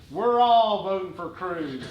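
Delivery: slow, drawn-out declaration; Phil. Retold or imitated. Dad ending a campaign commercial, slow lightly imitated declaration. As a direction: announce it slowly for everyone, lightly imitated. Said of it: "Phil goes".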